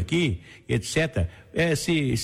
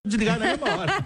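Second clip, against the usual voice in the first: put-on fast, high old man voice breaking into a laugh; 6 semitones higher, faster than usual. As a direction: keep the frail old man voice going. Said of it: "uma voz de velhinho".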